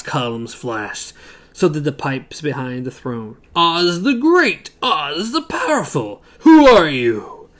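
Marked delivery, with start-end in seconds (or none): 3.5-7.5 booming wizard. Acted. Wizard announces himself.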